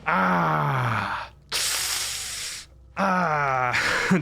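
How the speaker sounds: mock pained "ah, ah"; pained groans. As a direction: imitate Peter Griffin's knee groan. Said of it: "rocking back and forth and going".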